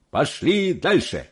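high, drawn-out rallying cry; exclaiming. Acted. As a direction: urge them on with slow, high exclamation. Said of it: "воскликнул мистер Вонка". (бодрый протяжный возглас)

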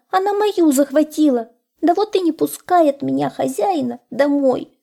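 high, plaintive hare voice; tearful hare. A narrator's reading. Hare telling the wolf his sad story, high and plaintive. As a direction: lament in a high little voice.

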